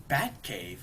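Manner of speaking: puzzled, low-key query; mildly bewildered little question; confused echo. Retold or imitated. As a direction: imitate a baffled butler echoing a word. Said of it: "Alfred's so confused".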